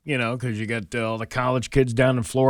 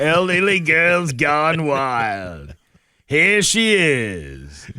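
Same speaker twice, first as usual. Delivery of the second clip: mock announcer; much slower than usual. Announcing the elderly show, laughing.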